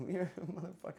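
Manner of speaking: usual speaking voice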